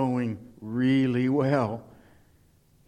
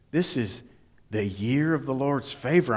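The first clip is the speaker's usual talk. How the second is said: hint of Osteen; 2 semitones higher than usual. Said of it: "not to say that with a Osteen accent".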